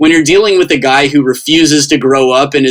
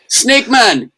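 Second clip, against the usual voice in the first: imitated Jamaican shout-out, pitched up; higher-voiced retold Jamaican greeting; Jamaican accent; 8 semitones higher than usual. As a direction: hail someone in a mock Jamaican accent. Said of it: "They had Jamaican accents".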